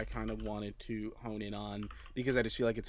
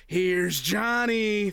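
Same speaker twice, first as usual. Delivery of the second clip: high, slow, drawn-out movie quote; Johnny Cage quip; 9 semitones higher, 7 dB louder, much slower than usual. Retold or imitated. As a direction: stretch it out like a horror villain. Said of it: "pulls it apart and goes".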